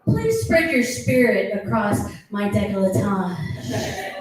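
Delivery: mock romantic. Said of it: "I do say".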